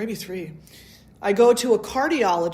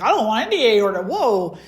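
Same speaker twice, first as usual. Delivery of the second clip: fast, louder mock panic; alarmed refusal; 2 semitones higher, 7 dB louder than usual. Refusing the cardiologist's surgery, fast alarmed blurt. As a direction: blurt it out like you're backing away. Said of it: "And I'm like".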